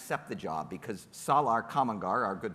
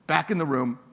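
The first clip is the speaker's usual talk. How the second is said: stern coach order; 4 semitones lower, 3 dB louder than usual. Retold or imitated. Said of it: "He's like".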